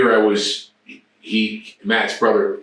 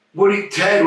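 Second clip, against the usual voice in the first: surprised question; 10 semitones higher than usual. Retold or imitated. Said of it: "I go".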